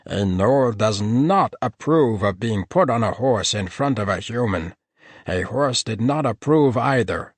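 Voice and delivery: prim, wounded dignity of a gnoll; indignant gnoll. A narrator's reading. Gnoll protesting to the paladins, offended.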